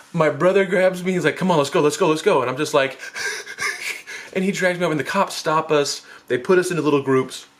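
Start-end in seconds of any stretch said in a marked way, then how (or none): 1.4-2.4 hurried, insistent urging; urgent. Retold or imitated. Brother urgently drags him away. 3.0-4.3 voiceless panicky gasps; panicked breathing. Retold or imitated. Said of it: "I can't even breathe".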